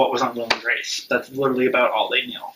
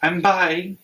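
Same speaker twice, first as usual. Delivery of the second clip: stereotypical denial; 7 semitones higher, slower than usual. Retold or imitated. Son telling dad he's bi, high panicked denial. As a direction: play the panicked stereotypical no-I'm-bi. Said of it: "the usual stereotypical".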